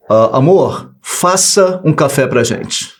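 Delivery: slow, curt order to a wife. Shown as a demonstration. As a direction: make it a command, not a request. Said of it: "Olha o tom verbal que eu usei". (tom de ordem, seco e lento)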